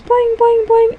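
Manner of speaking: high springy boings; bouncing cartoon sound. Little smiley circle bounces for joy, high boings. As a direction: sound out each bounce in a squeaky voice. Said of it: "he starts playing".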